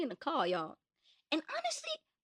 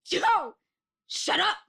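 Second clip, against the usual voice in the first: mock snapped shush; 5 semitones higher, slower than usual. Imitating friend shushing rude boys, snapped. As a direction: imitate her snapping at them. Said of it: "she like".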